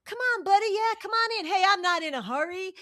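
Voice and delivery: high, loud, beaming and gushing; mock overjoyed fan. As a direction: play the giddy, generous winner's fan.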